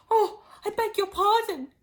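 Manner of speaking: hasty apology. Acted. Alice hastily apologizing to the mouse. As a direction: blurt the apology out. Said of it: "cried Alice again".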